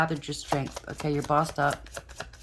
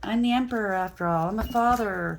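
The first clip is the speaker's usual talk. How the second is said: higher, louder boastful mock voice; voicing the Emperor; 6 semitones higher, 5 dB louder than usual. Reader acts out the egotistic Emperor card talking, raised boastful voice. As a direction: puff up as the self-important father figure.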